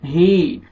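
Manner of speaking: ही held as a long ee after a clear h; stretched hee. Shown as a demonstration. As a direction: draw out ही. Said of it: "खींचना है". (ही को खींचकर)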